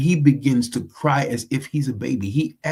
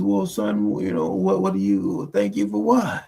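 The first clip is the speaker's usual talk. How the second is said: put-on lower, slow Southern country drawl of an old dad; 4 semitones lower than usual. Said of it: "uh, Southern country drawl".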